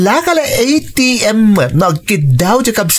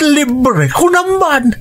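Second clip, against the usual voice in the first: mocking rise; 7 semitones higher, slower than usual. Mocking tease in family quarrel.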